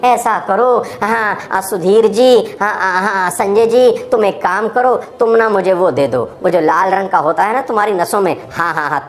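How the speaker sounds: mock half-hearted leader, hesitant and casual; slack, rambling speech. Leader feebly asking his followers for blood, slack and unsure. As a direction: hem and haw through a limp appeal. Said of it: "वहाँ ढीला ढाला बोल रहे होते".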